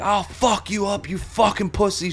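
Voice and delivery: high, drawn-out imitation of her threat; mock threat. Rowdy woman coming back at bartender, mock threat. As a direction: stretch it out in a strained high voice. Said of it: "She's getting real rough".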